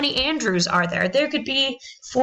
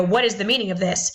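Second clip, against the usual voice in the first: indignant demand. Retold or imitated. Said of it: "That's the tone that comes across".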